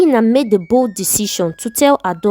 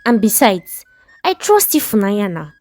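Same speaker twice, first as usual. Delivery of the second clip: outraged wife; 3 semitones higher than usual. Acted.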